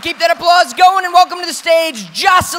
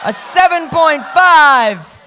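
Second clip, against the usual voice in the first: emcee reading out the judges' scores; host announcing scores. Real, not acted. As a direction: announce each score to the crowd.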